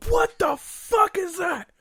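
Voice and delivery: loud, drawn-out startled shout; startled yell. Retold or imitated. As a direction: yell it like you just woke to a crash. Startled by loud bang at night.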